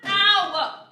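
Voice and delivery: sudden high yelp of pain; sharp cry of pain. Real, not acted. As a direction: yelp as the heat bites. Burns hand on pan.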